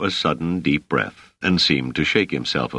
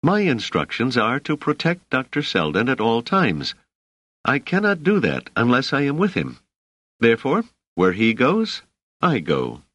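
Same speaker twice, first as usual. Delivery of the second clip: higher-pitched, irritated insistence; firm, exasperated bodyguard refusing to yield; clear irritation; 7 semitones higher than usual. A narrator's reading. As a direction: lay down the law, irritated. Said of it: "said Dors with clear irritation".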